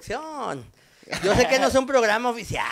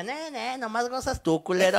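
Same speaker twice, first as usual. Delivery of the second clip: higher-pitched mock woman's voice; complaining wife; 4 semitones higher, 3 dB quieter than usual. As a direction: imitate an annoyed wife. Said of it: "y la vieja".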